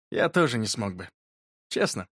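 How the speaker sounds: low, slightly softened confession. A narrator's reading. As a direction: admit it sincerely, low and gentle. Boy quietly admits he needs friend.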